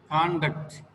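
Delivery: conduct stressed on con-; first-syllable stress. Shown as a demonstration. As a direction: model conduct as CON-duct. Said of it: "the first letter is the stress point".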